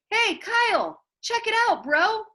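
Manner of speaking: calling out across the classroom, loud and high; a loud, eager shout to a friend; excited shout. A narrator's reading. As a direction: enthusiastic kid yelling a greeting. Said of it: "Miguel Fernandez shouted".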